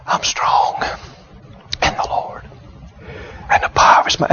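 imitating a feeble whisper, resting between words; weak. Bedridden patient repeating a confession after the minister, weak halting whisper. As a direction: whisper it haltingly, pausing to rest every few words. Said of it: "just how weak they were".

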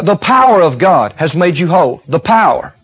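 "power" stressed, then repeated by itself, falling. Acted. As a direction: lean on "power" as the key word. Hypothetical misquote, stressing the wrong word.

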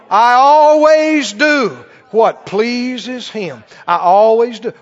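emphatic, with long-stretched key words; preached declaration. Acted. Preacher modelling a confession for the congregation, emphatic declaration. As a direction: proclaim it with building insistence.

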